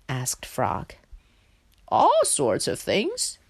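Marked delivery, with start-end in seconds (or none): 1.9-3.4 high, slow indignant pig. A narrator's reading. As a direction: draw it out in offended pig voice. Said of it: "replied Pig indignantly".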